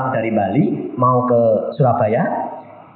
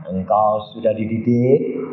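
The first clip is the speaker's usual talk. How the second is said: gentle false Jesus. Retold or imitated. Devil posing as Jesus tests the preacher, gentle. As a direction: lightly voice a gentle deceiver. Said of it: "dia ngomongnya halus, lembut".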